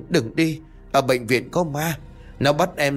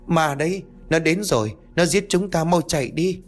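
very high, panicked warning; cowering terror; 8 semitones higher than usual. Acted. Ngọc cowering in her husband's arms, panicked. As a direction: urge everyone to flee in terror. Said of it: "Cô sợ sệt co rúm người lại".

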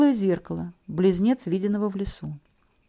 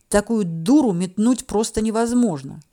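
ordinary delivery

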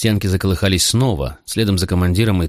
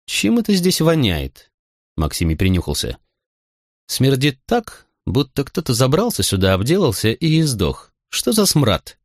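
disgusted commander; 6 semitones higher than usual. A narrator's reading. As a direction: sniff out the stench in disgust. Commander smelling stench.

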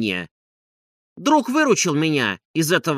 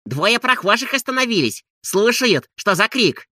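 higher women's voice; landlady and maid; 8 semitones higher, 3 dB louder than usual. A narrator's reading. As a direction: voice the worried housewives. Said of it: "сказали хозяйка и Анисья".

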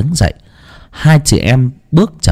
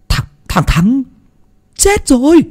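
high, gulping, stammering news; nervous stammer. A narrator's reading. Young man telling the gang of the death, high nervous stammer. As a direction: swallow hard and stammer it out. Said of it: "Nó nuốt nước bọt".

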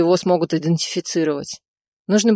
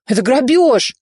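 higher, louder indignant protest; outraged; 7 semitones higher, 5 dB louder than usual. A narrator's reading. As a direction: cry robbery in outrage. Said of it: "возмутился Беспалов".

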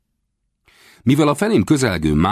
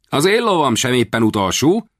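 put-on high, proud boy calling out; young master crying out about his horse; boyish exclamation; 8 semitones higher than usual. A narrator's reading. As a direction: boast about your own horse with a shout. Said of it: "kiáltott fel az úrfi".

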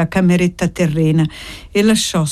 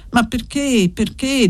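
a lightly voiced lament, pitched up; plaintive; 5 semitones higher than usual. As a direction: ask it like a hurt young man pleading. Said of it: "con voce lamentosa". (Gantine chiede di Annessa, con voce lamentosa)

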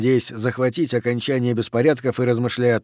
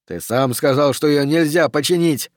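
raised, agitated objection, starting high; shouted protest; 4 semitones higher, 3 dB louder than usual. Acted. Daffy objects to leaving the hatch, shouting in protest. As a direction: protest urgently, pitch jumping up at first. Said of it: "закричал Даффи".

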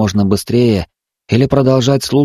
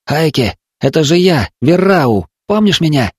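higher, desperate plea from the dark; trapped boy pleading; 7 semitones higher, 3 dB louder than usual. A narrator's reading. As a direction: beg him to remember you.

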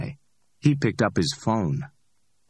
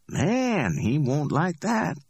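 higher, amused street hustler voice; cocky Ordell; 10 semitones higher, slower than usual. Acted. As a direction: play Ordell, high and pleased with himself. Ordell, high and slow.

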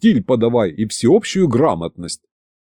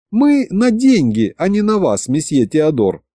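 grumbling; 5 semitones higher than usual. Acted. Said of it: "проворчала Маша".

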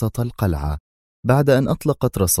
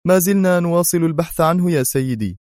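higher, lightly voiced nervous aide; nervous mumble; 10 semitones higher than usual. A narrator's reading. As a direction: answer the boss nervously. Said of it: "غمغم بيرت في توتر".

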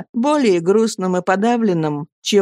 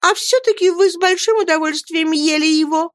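put-on high, childish tearful wail; sobbing retort, acted; 10 semitones higher than usual. A narrator's reading. Dora accuses husband over the salmon, high tearful retort. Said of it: "рыдала Дора".

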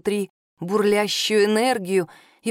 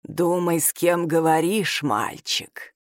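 amused and lower, drawing out мальчик; a teasing low warning to a boy; 5 semitones lower, slower than usual. Acted. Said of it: "судя по тону Адаллы, его слова её позабавили".

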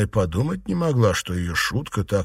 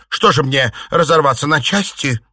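exasperated retort; 4 semitones higher, 5 dB louder than usual. A narrator's reading. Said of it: "огрызнулась Чуньянь".

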